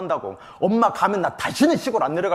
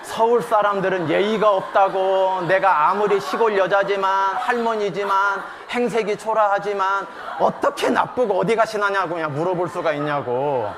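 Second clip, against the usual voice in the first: indignant rant; 2 semitones higher, 4 dB louder than usual. Retold or imitated.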